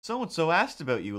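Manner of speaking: high cheery mock dad voice; a hint of a cheerful dad; imitating dad. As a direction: chirp it like a clueless dad. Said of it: "my dad was like".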